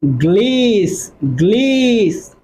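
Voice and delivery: slow, drawn-out গ্লিস, stressing the g cluster; syllable drill. Shown as a demonstration. Teacher to students, drilling the syllable: slow, careful গ্লিস. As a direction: break the word apart and linger on গ্লিস. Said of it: "like that, ইং".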